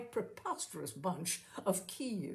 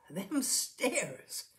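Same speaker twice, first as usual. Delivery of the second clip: darkly; 4 semitones higher than usual. Acted. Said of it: "continued Missus Brady darkly".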